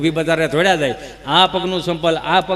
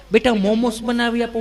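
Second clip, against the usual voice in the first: put-on coaxing sing-out to a little child, slightly raised pitch; doting mother; 4 semitones higher than usual. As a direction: coo like an indulgent mum. (લાડ લડાવતી mummy)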